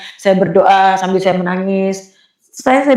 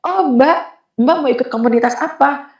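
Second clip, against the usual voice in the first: lightly voiced helpful church worker, pitched up; a hint of someone else's higher voice; 4 semitones higher than usual. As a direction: imitate an attentive woman replying.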